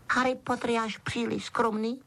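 high-pitched, respectful elf; Dobby, reverent. A narrator's reading. Elf praising his hero's modesty, reverent. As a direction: squeak it in pure admiration. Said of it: "řekl Dobby úctivě".

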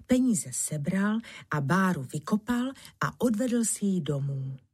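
ordinary delivery, nothing marked

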